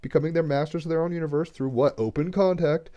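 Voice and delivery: getting verklempt, pitch climbing as it wells up; choked up. Real, not acted. Speaker overcome while talking of people helping others through confusion, choked up. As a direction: voice rising high with real emotion. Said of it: "I'm gonna get cr-, verklempt".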